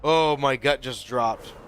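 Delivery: loud, startled outburst after a near miss; real scare. Real, not acted. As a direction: shaken by almost dying in game. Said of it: "God, that's so scary".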